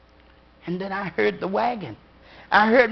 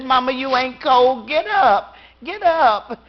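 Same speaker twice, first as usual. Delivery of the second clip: put-on higher, urgent little girl's plea; child pleading; 3 semitones higher, 5 dB louder than usual. A little girl begging her mother to get up, high and urgent. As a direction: beg mama to get up.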